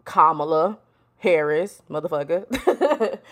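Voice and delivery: slow, deliberate name, laugh creeping in; pointed self-correction. Retold or imitated. Kamala setting the justice straight at the swearing-in, slow mock correction. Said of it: "Kamala was like".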